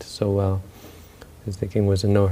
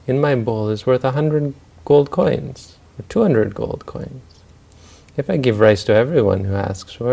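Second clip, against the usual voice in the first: raised, higher rich-man voice; lordly declaiming; 4 semitones higher, 3 dB louder than usual. Retold or imitated. Rich man refuses to share rice, lordly declaiming.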